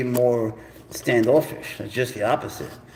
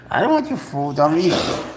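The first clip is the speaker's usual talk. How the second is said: mock pleading; 3 semitones higher than usual. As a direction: coax the cat with a raised pleading voice.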